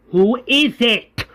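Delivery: slow, high-pitched demand; menacing question. Retold or imitated. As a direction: draw the question out as a threat. Governor demands the culprit, first take.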